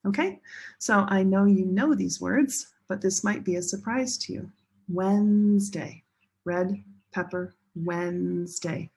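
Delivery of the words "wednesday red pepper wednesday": Wednesday drawn out slowly as WENZ-day; two syllables. Shown as a demonstration. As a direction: stretch the first syllable of Wednesday, keeping just two beats. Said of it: "two syllables".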